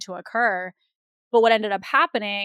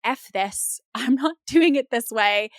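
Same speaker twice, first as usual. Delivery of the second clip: laughing, louder mock refusal; laughing defiance; 3 semitones higher, 4 dB louder, slower than usual. Recalling bolting from her business model, laughing defiance. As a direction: toss it off with a laugh. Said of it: "I was like".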